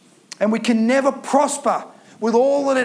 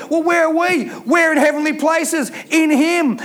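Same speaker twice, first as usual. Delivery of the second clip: rising, raised preaching call; a shout rising from the pulpit; 3 semitones higher than usual. Real, not acted. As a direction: lift the congregation with a shout. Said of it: "preacher rising to a shout".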